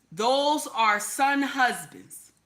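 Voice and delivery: "Those are son husbands" drawn out very slowly; emphatic. Real, not acted. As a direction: stretch out "Those are son husbands" word by word to drive it home. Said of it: "I want you to understand the difference".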